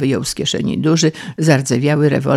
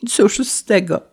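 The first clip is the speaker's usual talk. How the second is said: raised-pitch groan of despair; Paleta groaning; 5 semitones higher than usual. Acted. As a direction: groan it hopelessly. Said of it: "jęknął Paleta". (zrezygnowany, wysoki jęk)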